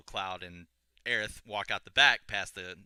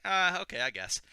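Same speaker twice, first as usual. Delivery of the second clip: high, louder "uh", then giving in; mock reluctance; 10 semitones higher, 6 dB louder than usual. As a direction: give in with a put-on grudging sigh of agreement. Cloud reluctantly agrees to the offer.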